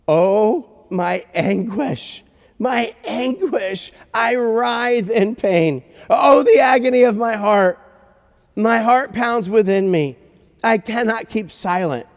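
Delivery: slow, high, loud cry of agony; anguished God. Acted. God crying out in Jeremiah, anguished declamation. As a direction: declaim it in drawn-out torment, swelling to a peak. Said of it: "God doesn't usually talk like that".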